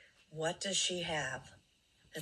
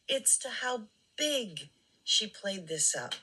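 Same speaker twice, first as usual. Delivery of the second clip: pointed whispered remark; 4 semitones higher than usual. Real, not acted. Commentator whispering her point about the clip. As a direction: hush it like a secret. Aside to viewers, voice drops.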